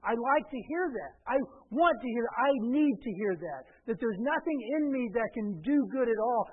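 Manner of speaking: emphatic, repetitive preacher cadence; forceful preaching. Real, not acted. Pastor telling congregation what he needs to hear, forceful preaching. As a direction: hammer each admission home.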